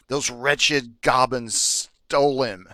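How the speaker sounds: slow, lightly voiced childlike kobold; squeaky childlike voice. Kobold blaming thieves, lightly childlike. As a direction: drag out the complaint, a hint of a child. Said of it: "this squeaky, childlike voice".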